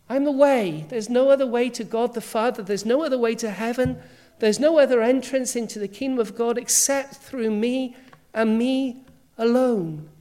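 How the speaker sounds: booming with rising force, peaking on "I'm the life"; ringing pulpit proclamation of Jesus' claims; proclaiming. Retold or imitated. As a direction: declare it like a preacher at full power. Preacher voicing Jesus' bold claims.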